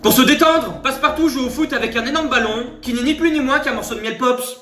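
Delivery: lightly voiced newsreader; news report.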